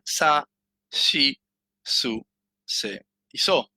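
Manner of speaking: sa, shi, su, se, so, each set apart by a pause; syllable demo. Shown as a demonstration. Teacher showing the second row's one variation, syllable demo. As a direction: sound out sa, shi, su, se, so, with an English "sh" in shi. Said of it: "Vamos a encontrar solo alguna variación".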